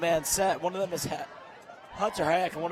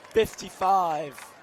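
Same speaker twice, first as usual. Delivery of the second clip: drawn-out call; 6 dB louder, much slower than usual. Real, not acted. Calling the jersey number.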